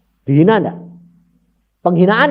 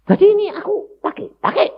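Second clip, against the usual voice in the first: voice of God; 3 dB louder, faster than usual. Acted. God voiced in sermon retelling.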